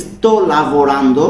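sto lavorando said very slowly, each syllable drawn out; slow demo pronunciation. Shown as a demonstration. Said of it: "lavorando হয়ে গেছে কিন্তু lavorare".

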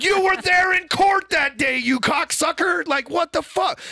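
high, drawn-out shout of indignation; outraged retelling. Retold or imitated. Nephew indignant at uncle denying his adoption, outraged mock shout.

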